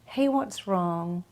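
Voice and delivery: needy, worried pleading; the wrong way, a mildly anxious plea; anxious questioning. Shown as a demonstration. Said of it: "do not say".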